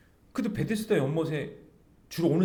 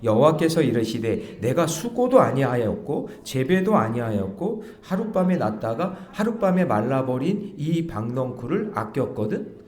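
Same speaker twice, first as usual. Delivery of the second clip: congregation reading aloud; 6 dB louder than usual. Shown as a demonstration. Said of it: "다 같이 시작".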